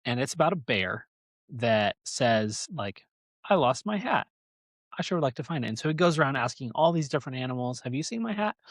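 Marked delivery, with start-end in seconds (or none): 3.5-5.7 bear voice. Retold or imitated. Voicing the bear in story. 7.8-8.5 bear voice. Retold or imitated. Bear asking animals.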